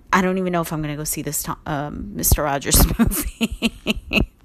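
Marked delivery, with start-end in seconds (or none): 2.2-4.3 slow, drawn-out words with a laugh. Real, not acted. Unsure about seeing the movie, laughing. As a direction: let a real laugh break into the words.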